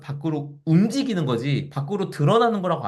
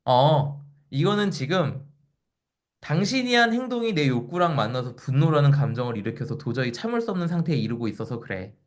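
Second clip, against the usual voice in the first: calm rational explanation. Retold or imitated. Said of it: "이렇게 이성적으로 설명할 수 있다는".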